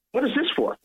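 quoting the clerk way up high in surprise; a puzzled woman's voice, pitched well up; high surprised clerk. Retold or imitated. Grateful clerk asking why, high and puzzled.

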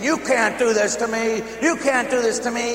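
high, loud mock yell of protest; retold scream. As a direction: cry out against the devil. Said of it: "And I'm screaming".

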